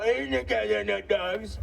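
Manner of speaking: a rough first-pass Trump voice; Trump impression. Comic tries the Trump line, host says it improves. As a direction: try the Trump line, still finding the voice. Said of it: "it's getting better".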